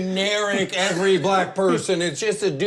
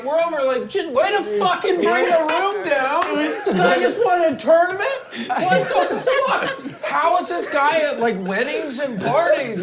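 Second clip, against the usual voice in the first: incredulous rant; 9 semitones higher than usual. Retold or imitated. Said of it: "And I'm like".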